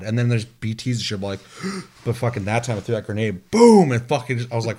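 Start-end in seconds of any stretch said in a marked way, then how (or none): 1.4-2.0 quick, soft high intake; imitated gasp. Imitates the creatures in the scene. 3.5-3.9 loud, higher "boom"; imitated explosion. Imitates the grenade blast.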